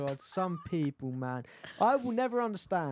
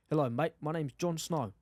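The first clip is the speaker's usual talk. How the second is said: rough mock South African accent; attempted South African accent; 2 semitones lower than usual. Shown as a demonstration. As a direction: try South African, only half convincing. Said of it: "South African".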